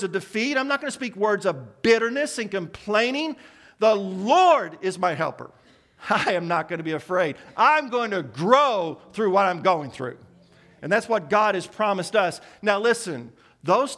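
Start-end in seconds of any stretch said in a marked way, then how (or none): 3.8-10.2 loud, bold declaration; with confidence. Shown as a demonstration. Preacher showing the congregation how to declare it boldly. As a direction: claim the promise out loud. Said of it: "Speak it with confidence".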